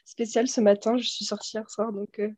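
hoarse after a night out; cracked, worn voice. Real, not acted. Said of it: "désolée si j'ai la voix cassée".

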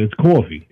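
coffee said as cawfee, long open aw; Brooklyn coffee. Shown as a demonstration. Girlfriend teases him, he says it Brooklyn-style. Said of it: "Say coffee".

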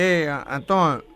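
put-on drunk voice. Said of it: "o bebo rei desmantelado".

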